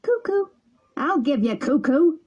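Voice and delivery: put-on high, jeering boyish yell; schoolboy mocking cry; taunting shout. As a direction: shout it at him as a dare. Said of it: "shouted the most daring of the boys".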